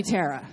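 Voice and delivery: Tara said TERR-a; short-E Tara. Real, not acted. Actress confirming the name to a fan, Tara said TERR-a. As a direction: say Tara with an "eh", like "terra". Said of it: "is it Tara or Tara".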